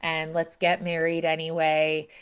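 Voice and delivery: understated soothing plea. Retold or imitated. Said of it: "trying to soothe him".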